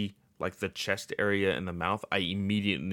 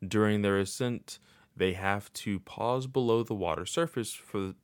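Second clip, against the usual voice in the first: flat, mechanical reading voice; robot voice. Shown as a demonstration. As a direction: read it out like a robot. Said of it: "I don't know why I'm talking like a robot".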